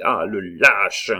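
loud, drawn-out insult; indignant, stretched shout; outraged cry. A narrator's reading. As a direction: throw the insult out slowly and loudly. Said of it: "cria Bussy".

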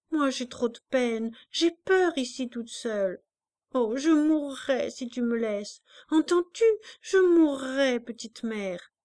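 cling to her with words; a lightly voiced girl near tears; distressed child. A narrator's reading.

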